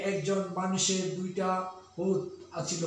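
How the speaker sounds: Noakhali dialect. Shown as a demonstration. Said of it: "Noakhali অঞ্চলের ... এইভাবে করে থাকে".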